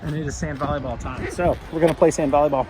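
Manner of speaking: muffled behind a mask; talking through a face mask; through fencing mask. Real, not acted. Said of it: "Hope you can hear me in the mask".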